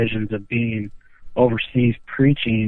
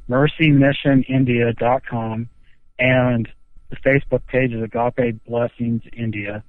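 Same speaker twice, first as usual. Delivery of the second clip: slowed down to spell it out; slow and clear. Real, not acted. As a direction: say it slowly for the listener. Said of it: "Say it again".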